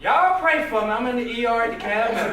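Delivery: mocking social media posts with laughs; laughing mockery. Real, not acted. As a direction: poke fun while laughing.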